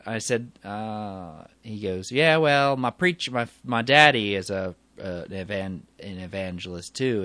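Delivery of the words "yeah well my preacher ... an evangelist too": imitated Southern preacher's son; southern accent. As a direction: talk about daddy in a Southern twang. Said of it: "He has this southern accent".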